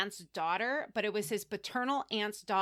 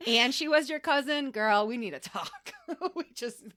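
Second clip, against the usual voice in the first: put-on sassy girlfriend scolding; 3 semitones higher, 4 dB louder than usual. Scolding Zerelda as a friend.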